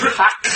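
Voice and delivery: "Hak" with a guttural sound from way deep down; deep-throated Hebrew sound. Shown as a demonstration. Teacher shows class how the Hebrew name is pronounced, deep guttural sound. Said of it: "from way deep down".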